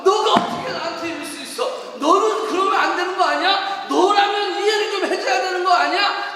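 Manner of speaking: loud, high acted complaint; indignant reproach. Hurt person confronting someone close, indignant reproach. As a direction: demand it like someone let down by a loved one.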